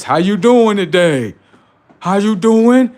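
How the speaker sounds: the sun greeting people cheerfully; friendly sun. Pretend. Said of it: "want the sun to be talking to them like this".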